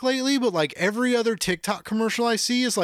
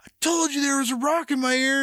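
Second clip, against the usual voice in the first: put-on higher, fast gloating kid; triumphant told you so; 6 semitones higher than usual. Kid proves his mom wrong, triumphant high gloat. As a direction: crow it at mom like a vindicated kid. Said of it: "and I was like".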